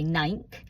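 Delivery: "nank" for nothing, in one syllable; Essex pronunciation. Shown as a demonstration. Showing how she said nothing at school, Essex "nank". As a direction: squash "nothing" down to a single "nank". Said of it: "nothing, I'd say".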